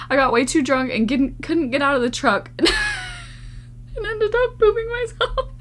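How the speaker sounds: squeaky high voice breaking into laughter; barely gets the words out through laughter; laughing while reading. Real, not acted. Reading a viewer's message aloud, cracking up with laughter.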